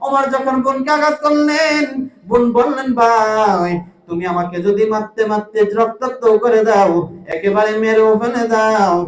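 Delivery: intoned sermon, stretched phrase endings; half-sing the sermon to the crowd; melodic waz preaching. Retold or imitated. Chanted Umar story. (সুর করে ওয়াজ)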